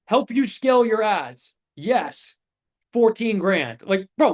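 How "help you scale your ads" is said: vague pitch. Shown as a demonstration. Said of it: "I fucking put that here".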